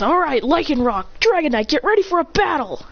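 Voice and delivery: rally the team for a fight; battle call. Acted. Christian readying Lycanroc and Dragonite for battle, mild battle call. Trainer readies Pokemon for battle.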